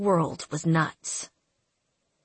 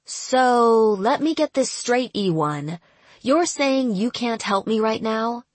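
incredulous anger; 4 semitones higher, 3 dB louder than usual. Acted. Erin confronts the agent.

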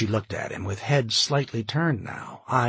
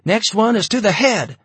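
much higher and louder nervous yell; screaming; 12 semitones higher, 9 dB louder than usual. A narrator's reading. Student guard warning Carol, screaming. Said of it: "the student was screaming".

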